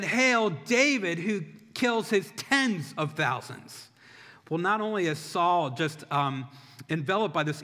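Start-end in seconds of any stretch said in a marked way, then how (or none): 0.0-3.9 slow, higher-pitched imitated cheer; half-shouted parade chant; mock crowd shout. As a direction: proclaim it like an acclaiming crowd, stretching the words. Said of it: "the people are shouting".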